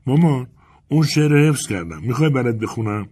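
a hint of a child asking mum; lightly voiced little girl. A narrator's reading. Little girl pesters her mother.

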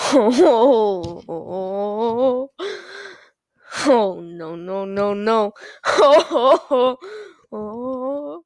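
laughing oh no, oh no. Pretend. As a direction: cackle through the no's. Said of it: "Recreate the no-no laugh".

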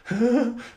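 sharp, high intakes of breath; startled gasps. Acted. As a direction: gasp as if walking in on someone. Acting out opening the door.

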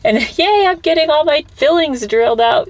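high, falsetto fake-cheerful yay; mock cheerful sarcasm. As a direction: squeal it like a cartoon optimist. Sarcastic mock cheer about disasters.

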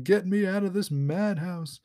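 lightly acted cry to be let out; mock yell. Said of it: "he's yelling to himself".

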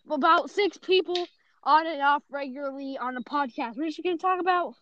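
breathless, winded speech; out of breath. Real, not acted. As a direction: talk while catching your breath. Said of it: "I'm very out of breath right now".

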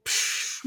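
soft unvoiced explosion puff; mind-blown sound effect. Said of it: "The sound effect".

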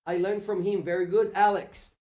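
ordinary talk, nothing marked

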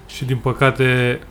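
slow, put-on solemn mourning; mock eulogy. Mourning a beer gone too soon, mock solemn. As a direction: draw it out like a mock funeral tribute.

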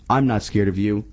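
put-on loud, defiant kid voice; brave little boy. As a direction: shout it at the dark like a boy. Billy voiced in story.

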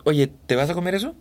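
light Peruvian lilt, endings rising; a touch of Lima Spanish; Peruvian accent. Shown as a demonstration. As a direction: acento peruano ligero. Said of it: "eso es muy peruano".

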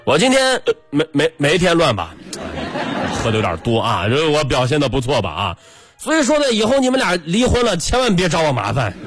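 tipsy guest. Retold or imitated.

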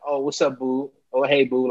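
soft, low flirty coo; whiny ex impression. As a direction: coo it like a clingy ex. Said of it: "my ex be like".

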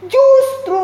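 high, drawn-out imitated wail; acted tearful outcry; wailing cry. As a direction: wail the word like an upset parent. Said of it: "Dia nangis nyerit".

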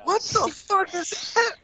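high, slow, baffled disbelief; retold shock. Recalling his first reaction to the voice, high stunned disbelief. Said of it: "sounded like".

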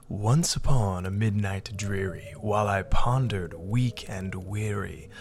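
dark, brooding gothic poem reading; Edgar Allan Poe impression. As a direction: read it like a gloomy poet. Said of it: "in your best Poe impression".

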